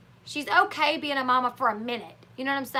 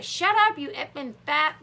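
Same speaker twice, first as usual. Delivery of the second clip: retold angry outburst. Amber going off on Gary, retold anger.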